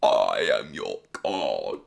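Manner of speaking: mock god voice. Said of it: "I could do this voice".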